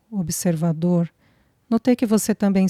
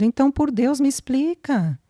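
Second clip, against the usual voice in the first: a distressed man begs her for the truth; distressed plea; 7 semitones higher than usual. A narrator's reading. Marcelo begs Flávia to explain, anxious and pleading. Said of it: "pediu aflito".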